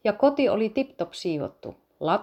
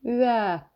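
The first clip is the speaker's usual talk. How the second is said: higher, brief mock wail; crying; 5 semitones higher than usual. A narrator's reading. Little sister cries to her dad after being pushed, crying. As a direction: imitate a little girl's cry. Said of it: "itki Lilli".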